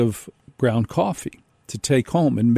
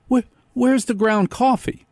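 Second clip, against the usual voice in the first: retold fury; 10 semitones higher than usual. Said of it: "I was freaking furious".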